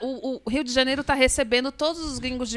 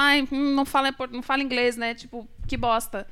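mock disdainful sigh; 5 dB quieter than usual. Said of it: "ela fala".

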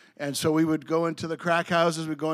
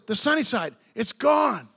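excited shout; 3 semitones higher than usual. Retold or imitated. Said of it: "He goes".

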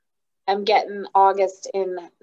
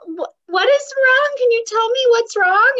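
much higher coaxing question; mock sweet mom voice; 5 dB louder than usual. Mom retelling coaxing her daughter, high and gentle. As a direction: coax it like a baby-talking mom. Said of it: "I'm like".

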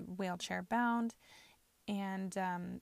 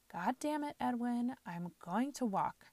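higher, forceful retelling of "God damn it, Edwin"; imitating a blunt outburst; 4 semitones higher than usual. Grandmother in a full room telling her husband she'll walk, blunt and forceful. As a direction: let it rip like grandma not caring who hears. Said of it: "she just said".

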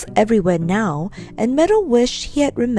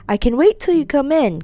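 calling out; 5 semitones higher than usual. Acted. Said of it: "called his aunt".

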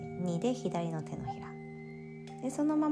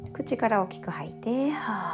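demonstrated exhale; 4 dB louder than usual. Shown as a demonstration.

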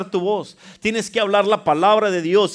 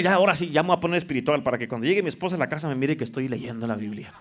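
a hint of a smug husband, fast and lower; mock pious husband; 4 semitones lower, 3 dB quieter, faster than usual. Preacher mocking a husband who fakes piety, light and quick. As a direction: lightly play the fake-spiritual husband. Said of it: "Según tú te quieres poner".

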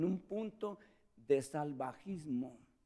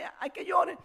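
mock exasperated call; 13 semitones higher, 6 dB louder than usual. Mother letting the baby cry.

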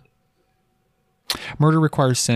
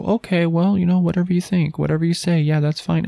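mock shrugging church; 4 semitones higher than usual. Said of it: "the church is starting to go".

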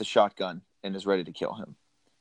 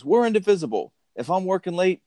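higher, pushy boss rant, slowing at the end; mock yelling boss; 9 semitones higher than usual. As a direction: rant at the secretary like a bullying boss. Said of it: "when he's yelling at Grace".

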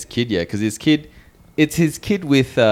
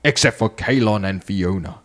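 higher, building trailer announcer voice; cinema pre-show announcer; 3 semitones higher than usual. Acted. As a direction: hype it up like a trailer. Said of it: "I'm gonna use my cinema announcer voice".

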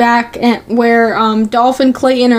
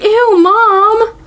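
high, whiny mock disgust; drawn-out, high-pitched protest; mock grossed-out kid; 9 semitones higher than usual. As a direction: imitate a kid appalled by mom. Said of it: "Rock is like".

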